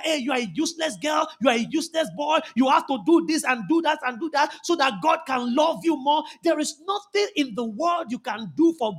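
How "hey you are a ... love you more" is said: mock devil voice. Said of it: "the devil comes to tell you that".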